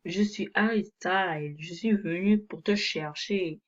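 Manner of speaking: put-on a light, tentative English accent in French; léger accent anglais. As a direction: attempt a slightly English accent. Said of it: "Je fais un accent un peu anglais". (léger accent anglais hésitant)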